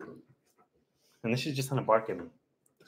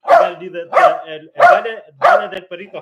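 excited announcement; 9 semitones higher, 11 dB louder, faster than usual. Real, not acted. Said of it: "calling out song title excitedly".

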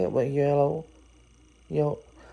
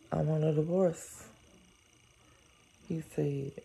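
soft first read; 9 dB quieter than usual. Shown as a demonstration. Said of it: "Replay two".

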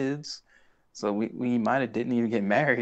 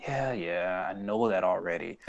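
softer, offhand mock dismissal; nonchalant; 3 semitones lower, 5 dB quieter than usual. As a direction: brush it off as old news. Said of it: "he's just very nonchalant about that stuff".

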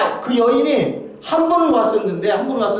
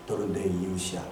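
much softer and lower, nearly breathed; hushed inner voice; 13 semitones lower, 13 dB quieter than usual. Retold or imitated. Pastor voicing words heard in prayer, hushed. Hearing God's words while praying.

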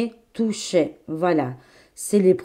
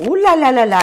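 surprise; 6 semitones higher, 8 dB louder, faster than usual. Real, not acted. Réagit à une carte choc.

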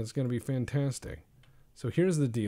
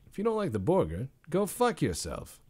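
Regis Philbin; 6 semitones higher than usual. Pretend. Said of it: "Why did I say that like Regis Philbin".

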